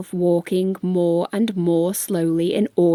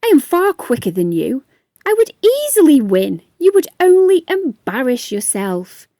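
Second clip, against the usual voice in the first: higher, louder cocky ant; the show-off ant sure he'll win; boastful ant; 5 semitones higher, 6 dB louder than usual. Acted.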